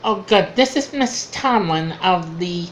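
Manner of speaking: lightly voiced nasal-free telephone operator; a hint of the prim phone operator; mock-polite switchboard operator; Ernestine the operator. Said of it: "this Ernestine, this operator".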